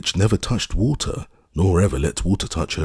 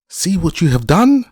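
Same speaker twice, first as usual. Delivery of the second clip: high, loud shriek; witch screaming; 13 semitones higher, 6 dB louder than usual. A narrator's reading. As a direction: scream it at the girl in panic. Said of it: "she screamed".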